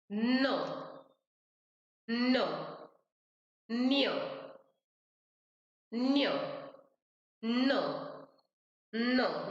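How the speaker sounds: nasal न drawn out for students; nasal demo. Shown as a demonstration. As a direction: let न buzz in the nose. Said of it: "यहाँ पे vibrate हो रहा है".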